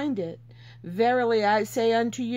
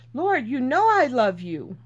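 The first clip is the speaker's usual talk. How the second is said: louder, exasperated reply; aggravated Peter; 5 dB louder than usual. Retold or imitated. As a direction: Peter fed up at being asked again. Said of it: "Peter's getting aggravated".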